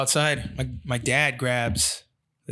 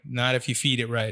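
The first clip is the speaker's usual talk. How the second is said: laughing wry reply; 2 semitones lower than usual. Retold or imitated. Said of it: "own wry reply, laughing".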